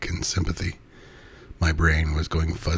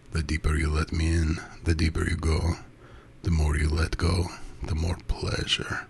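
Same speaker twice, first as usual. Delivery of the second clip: hypnotic cadence. A narrator's reading. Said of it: "His voice took on its hypnotic cadence".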